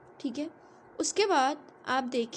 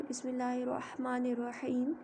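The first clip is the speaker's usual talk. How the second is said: quiet recitation; 7 dB quieter than usual. Shown as a demonstration. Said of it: "तो आप देखिए".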